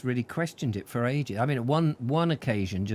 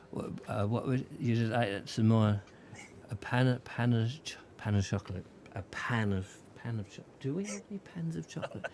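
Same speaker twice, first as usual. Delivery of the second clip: mumbled, slurred tipsy waiter, softer; fake drunk slurring; 6 dB quieter than usual. Shown as a demonstration. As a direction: let the words slide like a slightly drunk waiter. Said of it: "slightly, so my words".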